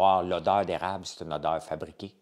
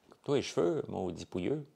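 softer, playful scolding; light teasing; 3 dB quieter than usual. Acted. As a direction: tease him, half-joking. Same insult repeated more lightly.

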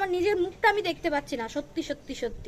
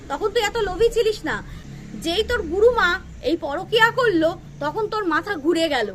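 angry outburst; 4 dB louder than usual. Real, not acted. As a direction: blast her for the affair scandal. Scolding a rival creator, flares up. (রাগে চড়া গলায় বকুনি)

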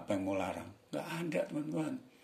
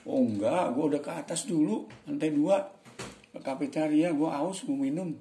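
loud, raised-pitch chatty role-play; slangy dialogue voice, pitched up and loud; acted casual reply; 7 semitones higher, 4 dB louder than usual. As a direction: play the employee answering back, louder and higher. Acts Leman's casual reply.

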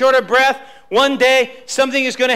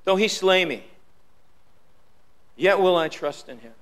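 quiet unison recitation, voice lowered; congregation recitation; 6 semitones lower, 6 dB quieter than usual. Shown as a demonstration. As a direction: say it softly together with the church. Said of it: "How many would say that with me".

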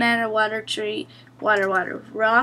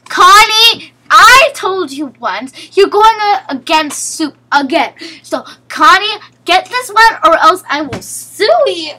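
mock scolding yell; 3 semitones higher, 6 dB louder than usual. Real, not acted. Scolding Connie during game.

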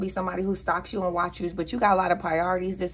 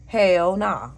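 "Hell nah" repeated noticeably louder, stress on "Hell"; 5 dB louder than usual. Retold or imitated. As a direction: punch the second "Hell" harder, falling at the end. Telling someone off.

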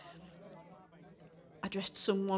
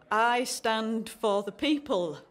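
mock politician; slower than usual.

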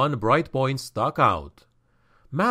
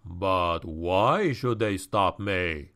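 low, slow, a lightly lowered sly menace; malevolent question; 7 semitones lower, 3 dB quieter, slower than usual. Acted. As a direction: toy with the captive's hope. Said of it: "asked the malevolent figure".

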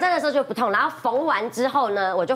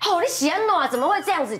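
higher-pitched fretting mother; worried mother; 5 semitones higher than usual. Retold or imitated. Mother seeing her injured daughter, mock worried exclamation. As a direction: imitate a mum exclaiming over an injury. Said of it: "就妈妈很担心这样".

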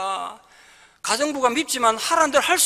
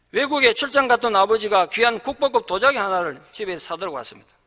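normal talking voice

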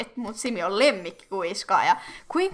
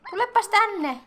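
calling a pet; 9 semitones higher, 4 dB louder than usual. Real, not acted. Calling the kitten over.

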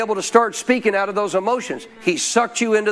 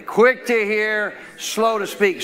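recited with the congregation; slower than usual. Shown as a demonstration. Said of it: "Say it with me".

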